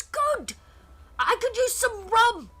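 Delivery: high, hearty Cockney shout; Walcott Savage Soul Byron. Acted. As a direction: call out like a Cockney pirate. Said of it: "He goes".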